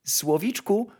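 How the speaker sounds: put-on high, sweet girlish calling; joyful call. A narrator's reading. Kitchen girl calling to the nightingale, joyful. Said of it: "zawołała radośnie dziewczynka".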